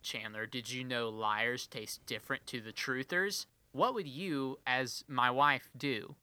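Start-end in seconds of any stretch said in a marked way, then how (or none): 0.0-3.4 quiet quote. Retold or imitated. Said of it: "and I said".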